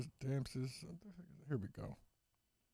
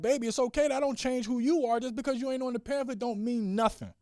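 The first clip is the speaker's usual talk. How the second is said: higher-pitched, earnest reassurance; raised, encouraging parent voice; consoling dad; 8 semitones higher than usual. Acted. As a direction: reassure a let-down child. Dad consoling daughter in story.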